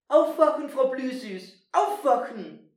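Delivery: loud, high urgent mouse call. Acted. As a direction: call her urgently to wake up. Trying to wake the mouse.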